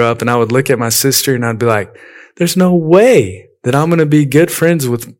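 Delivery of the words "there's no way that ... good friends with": put-on higher-pitched childish refusal, NO WAY swooping up; adamant disbelief. Kid rejecting any future friendship with the sister, adamant disbelief. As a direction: scoff at the very idea.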